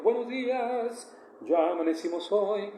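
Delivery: mock-saintly sing-song morning greeting; mock pious singsong. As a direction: parody an overly spiritual spouse at breakfast, slowly. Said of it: "no vas a hablar cantando".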